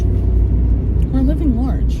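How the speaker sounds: slow, drawn-out fake European accent; put-on Italian-French accent. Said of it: "I don't know what kind of accent that was".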